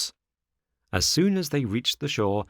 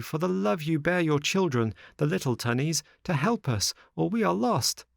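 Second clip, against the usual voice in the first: high, urgent pleading voice; high-pitched young plea; pleading puppet; 8 semitones higher than usual. A narrator's reading. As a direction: beg for rescue in a high voice. Pleading character in story.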